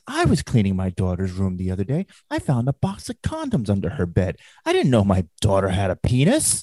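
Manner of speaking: lightly mimicked comic punchline voice; Gilbert Gottfried impression. Storyteller mimics comedian's Polish mother joke, light impression. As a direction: swoop up and down toward the punchline. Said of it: "The Polish woman says".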